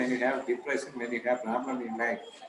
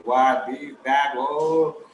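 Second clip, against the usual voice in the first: loud mock shout, pitched up; shouting boss; 7 dB louder, much slower than usual. HOD shouting at his staff in the department, mock loud shout. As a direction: imitate a boss barking loudly. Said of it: "no, shouting at you".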